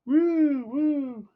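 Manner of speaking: high excited woo; excited whoop. Real, not acted. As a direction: cheer like a fan. Cheering for the toy.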